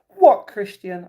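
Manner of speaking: mild irritated snap; irritable snap. A narrator's reading. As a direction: snap at him, fed up. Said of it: "I snap irritably".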